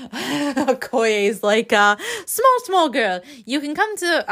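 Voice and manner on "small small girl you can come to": high-pitched, badly faked Wakandan accent; hammy Wakandan accent; terrible Okoye accent. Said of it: "that's a terrible accent".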